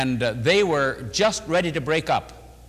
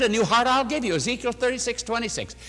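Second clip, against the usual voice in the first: raised, ringing recital of the verse; emphatic scripture quote; 7 semitones higher than usual. Retold or imitated. Preacher quoting the verse to a troubled couple, ringing. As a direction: proclaim the verse high and bright.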